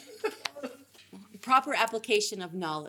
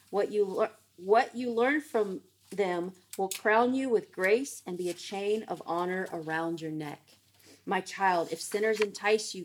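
measured, deliberate Bible reading with weighted key words; scripture reading. Acted. Teacher reads Proverbs to the group, measured scripture reading. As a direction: read the proverbs out clearly, phrase by phrase.

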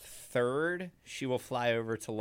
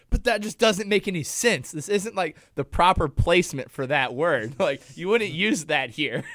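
higher, louder mock indignation; upset Bruno; 5 semitones higher, 6 dB louder than usual. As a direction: play his upset protest, hammed-up. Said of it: "he got really upset".

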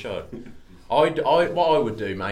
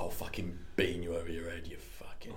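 soft, lower Cockney threat; 4 semitones lower, 9 dB quieter than usual. Acted. Trying out a Cockney one, low mock threat in Cockney. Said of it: "could be a good Cockney one".

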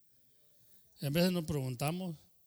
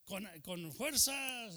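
uncle urging; 5 semitones higher, much slower than usual. Retold or imitated. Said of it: "porque decía".

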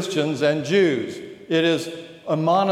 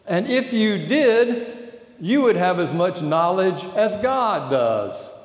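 tempter voice; 2 semitones higher than usual. Acted. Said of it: "the temptation voice says".

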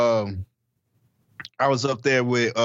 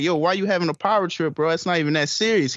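upset; 5 semitones higher, faster than usual. Retold or imitated. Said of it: "I was highly upset".

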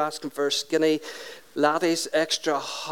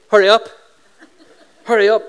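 loud mock parent yell; impatient parent shout; 3 semitones higher, 10 dB louder, faster than usual. Parent rushing kids in a sweet shop, impatient shout. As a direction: call it out sharply to dawdling kids.

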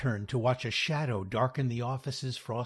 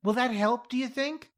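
upset; 13 semitones higher, 6 dB louder than usual. A narrator's reading.

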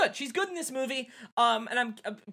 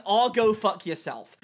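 quoting the movie line; 3 semitones higher, 7 dB louder, slower than usual. Retold or imitated. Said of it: "saying the line".

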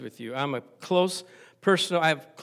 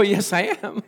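higher, louder firm reply; stubborn insistence; 4 semitones higher, 4 dB louder than usual. Retold or imitated. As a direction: plant your feet and insist. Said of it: "I go".

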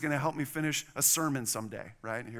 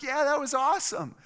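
high, loud mock-excited daughter; gleeful kid impression, pitched way up; imitating thrilled kid; 11 semitones higher, 5 dB louder than usual. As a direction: play the child who loved the scare. Daughter thrilled by broken glass.

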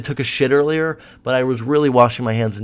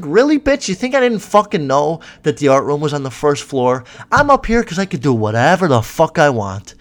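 defiant retort; 3 semitones higher, 4 dB louder than usual. Retold or imitated. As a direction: act out talking back to the vice principal. Retells his defiant retort to her.

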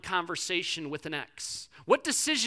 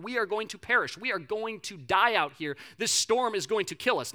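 loud, raised-pitch panic, each word hammered; mock freaking out; 4 semitones higher, 5 dB louder than usual. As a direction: act out disciples sure they will perish. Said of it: "they are freaking out".

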